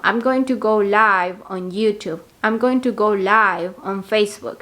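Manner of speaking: slow, careful model sentences; slow example sentence. Shown as a demonstration. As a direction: spell it out for learners. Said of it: "pueden decir algo así como". (frases de ejemplo lentas)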